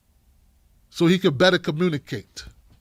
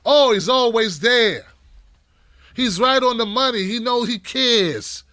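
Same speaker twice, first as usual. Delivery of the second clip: gushing fan; 5 semitones higher than usual. Retold or imitated. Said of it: "They say".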